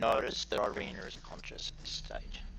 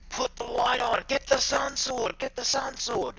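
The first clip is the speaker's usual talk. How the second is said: high-pitched urgent yell in character; acted cry of command, pitched well above normal talk; 12 semitones higher than usual. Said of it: "and she's yelling".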